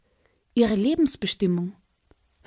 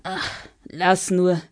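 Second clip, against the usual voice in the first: gelangweilter Drache; 3 semitones higher than usual. Acted. Dragon speaks bored.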